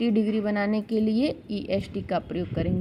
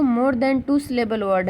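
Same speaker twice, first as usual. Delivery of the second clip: slow dictation; much slower than usual. Shown as a demonstration. Stressing the rule heading.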